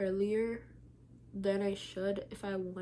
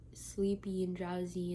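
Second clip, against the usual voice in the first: whispering; slower than usual. Real, not acted. Describes drowsiness, whispered.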